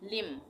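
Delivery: "लिम" closing on M; silent N. Shown as a demonstration. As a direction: say "लिम" with no N after the M. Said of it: "एन का उच्चारण नहीं होगा". ("लिम", आख़िर का न silent)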